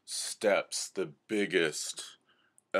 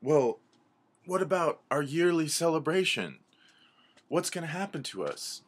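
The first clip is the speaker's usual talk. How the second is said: high-pitched, loud fretting; anxious pleading in a raised voice; worried animals; 10 semitones higher, 5 dB louder than usual. Acted. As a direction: fret like a panicked little creature. Animals fret over their celebration.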